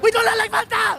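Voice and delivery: high, loud mock German shout; German heckler. Comic retelling of the German heckler rejecting Fanta. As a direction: bark it like the angry German. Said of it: "the guy was like".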